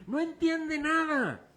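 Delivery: very slow, high, stretched nada; drawn out emphasis. Acted. Preacher stresses Checo understands nothing, drawn out. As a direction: stretch every word.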